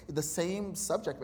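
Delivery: ordinary talk, nothing marked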